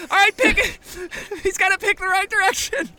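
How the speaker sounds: high frantic urging; panicking gamer. Acted. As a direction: urge him on in panic.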